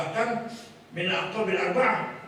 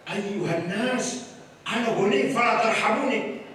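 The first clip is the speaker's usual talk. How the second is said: rich cleric's proud Arabic; 4 semitones higher than usual. Pretend. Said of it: "Ngomongnya gimana?".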